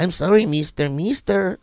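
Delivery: imitated Hispanic accent. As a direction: mimic a Hispanic clerk's accent. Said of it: "no matter what accent I do".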